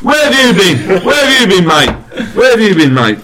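high, loud Cockney demand; hammed-up action-hero yelling; Jason Statham. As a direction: repeat it as an exasperated London hard man. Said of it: "Jason Statham".

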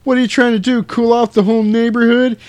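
a hint of a fed-up mother; scolding mom. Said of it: "classic mom line".

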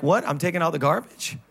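mildly indignant, quick and half-laughing; mock surprise. Husband to wife, lightly mock-shocked about garbage. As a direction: act like the chore is news to you. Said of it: "You're like".

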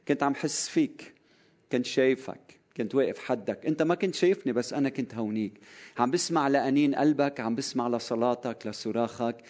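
soft, gentle reassurance, lightly voiced; tender Jesus. Jesus comforts Nathanael quietly, a gentle hint of tenderness. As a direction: hush down as if beside a hurting friend.

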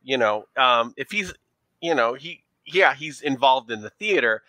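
put-on leaning into a thick New York accent; a New York showgirl playing up her accent. Showgirl answering detectives about her boyfriend, in a New York accent. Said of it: "our New York accent when we lean into it".

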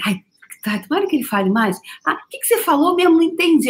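high, dreamy, playing lost on the call; dazed self on phone. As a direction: act charmed and confused on the phone. Imita-se ao telefone com baiano. (encantada e perdida ao telefone, aguda)

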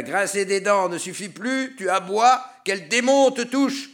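high, loud taunting cry; shouting. Acted. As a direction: yell out mockingly at Bocca. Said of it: "cria quelqu'un".

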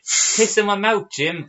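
high, slow, begging fan; pleading fan voice. Retold or imitated.

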